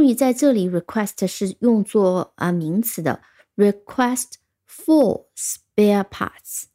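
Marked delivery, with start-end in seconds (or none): 6.0-6.6 1 whispered word. Shown as a demonstration. Reading the example word.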